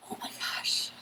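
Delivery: a whispered inner gasp of worry; panicked whisper. Retold or imitated. Inner voice doubting the goal, whispered panic. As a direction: breathe it out like a silent panic.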